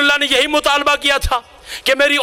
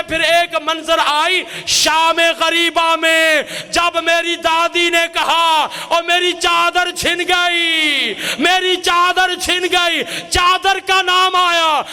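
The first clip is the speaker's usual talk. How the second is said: weeping recollection; 3 semitones higher, slower than usual. Acted. Baqir recalling the stolen veil, slow weeping. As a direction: draw it out, rising with grief. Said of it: "बाकर रो के कहते हैं".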